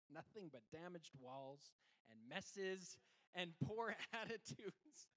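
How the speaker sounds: chuckling, slow and rising; laughing. Real, not acted. Laughing joke about kids.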